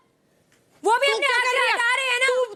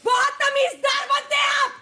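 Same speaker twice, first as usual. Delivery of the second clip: real indignant yell; angry shouting. Real, not acted. Housemate confronting a man in a quarrel, shouting angrily. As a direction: shout it accusingly. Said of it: "इतना मत चिल्ला".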